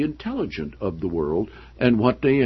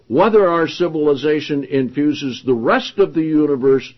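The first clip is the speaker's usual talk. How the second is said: projected, deliberate reading of a book; emphatic read-aloud; 5 semitones higher, 6 dB louder than usual. Acted. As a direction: read the passage out to the room with emphasis. Reads book passage aloud.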